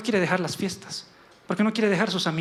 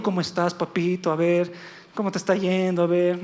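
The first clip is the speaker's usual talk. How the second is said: mock coddling. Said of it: "no le dijo".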